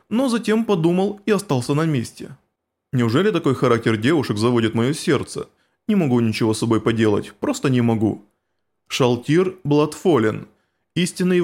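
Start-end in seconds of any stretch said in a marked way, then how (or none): 2.9-8.3 low, hushed inner voice; inner thoughts. Acted.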